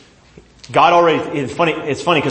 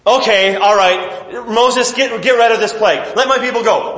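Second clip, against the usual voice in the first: pleading Pharaoh; 5 semitones higher than usual. Acted. Pharaoh caving in.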